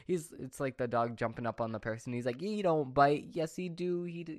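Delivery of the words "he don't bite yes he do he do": higher-pitched mimicry of a viral clip; Vine impression. Quoting the Vine about the biting dog, high mimicking voice. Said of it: "That's like that Vine".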